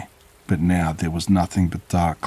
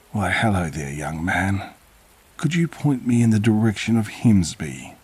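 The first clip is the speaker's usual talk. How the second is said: put-on old stranger in a lightly done thick Buckinghamshire accent; hint of a broad Buckinghamshire lilt, friendly and odd; creepy old man asks the lost narrator the way, light Buckinghamshire accent; 3 semitones higher than usual. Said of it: "in an oppressively thick Buckinghamshire accent".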